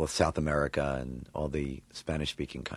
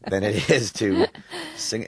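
much higher, louder, slow half-sung cop voice; Chief Wiggum voice; 10 semitones higher, 8 dB louder, slower than usual. Shown as a demonstration. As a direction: croon it like the dopey police chief, laughing through. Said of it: "Chief Wiggum's like this".

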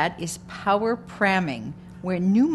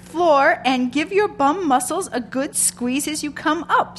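fitness instructor shout; 8 semitones higher, 6 dB louder than usual. Retold or imitated. Fitness guru barking orders.

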